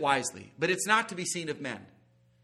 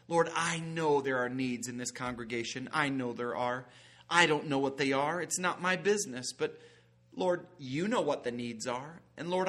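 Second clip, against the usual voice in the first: earnest, steady prayer voice; pastoral prayer. Acted. Preacher praying over his congregation at the close, earnest.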